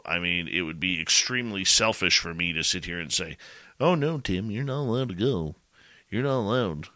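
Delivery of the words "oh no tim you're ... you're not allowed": high, put-on protest; mock-forbid a friend from leaving in a raised voice; mock pleading. Co-host imagining selfishly refusing to let a friend go, mock pleading.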